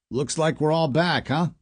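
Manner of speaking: put-on light Boston accent, casual. A narrator's reading. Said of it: "Scott said in his Boston accent".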